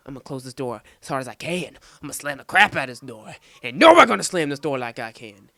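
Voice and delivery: mock boast building to a loud shout; retold boastful outburst. Boy slamming a locker door showing off, mock boastful shouting. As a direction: build up to a hammed-up holler.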